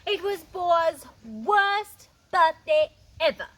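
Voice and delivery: loud, slow mock despair; milk the drama; dramatic gloom. A narrator's reading. Dramatic story low point.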